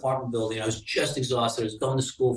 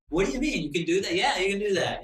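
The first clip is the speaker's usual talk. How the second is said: put-on amazed kid; 7 semitones higher than usual. Kids amazed about washing car.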